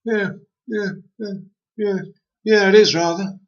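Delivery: high, nodding yes-yes; Nodding Tree agreeing eagerly, high voice. A narrator's reading.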